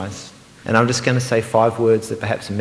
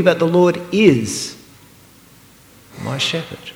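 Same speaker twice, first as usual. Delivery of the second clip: pause, then lift "my" gently; stress on MY; 6 semitones higher than usual. Shown as a demonstration. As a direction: personal stress on "my". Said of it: "I'm gonna emphasise just one at a time".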